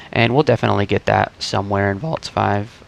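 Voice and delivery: morning voice cracking mid-phrase. Real, not acted. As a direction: let the voice crack. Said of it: "sorry about my voice cracking".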